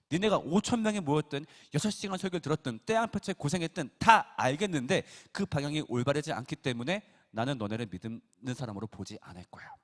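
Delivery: Jesus rebuking the crowd, loud and stern; rebuke. Retold or imitated. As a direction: scold the crowd with force.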